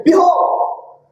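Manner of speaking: grand announcement. Shown as a demonstration. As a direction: call the room to attention with "Behold". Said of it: "If I come into the room and I say".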